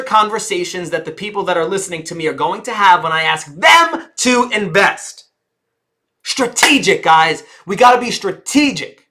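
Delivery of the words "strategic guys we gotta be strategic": real excitement bubbling over; excited. Real, not acted. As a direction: fire them up about strategy. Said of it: "getting a little excited".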